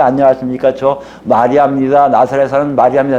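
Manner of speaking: lightly voiced courteous self-introduction; polite Mary greeting. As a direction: rattle off a respectful introduction. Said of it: "어른이니까 인사했을 거 아니에요".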